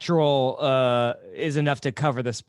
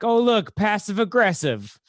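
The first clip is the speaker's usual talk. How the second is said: higher-pitched mock call back; retold yell; 5 semitones higher than usual. Luke yelling back at a passing hiker, mild mock yell. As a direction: imitate calling back with mild force. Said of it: "just yelled back".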